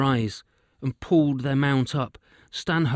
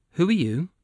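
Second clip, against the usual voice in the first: sharp, higher, rising startled ask; startled question; 5 semitones higher, 4 dB louder than usual. Acted. Hunter startled by a witch appearing, sharp surprised question. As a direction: jump back and demand it.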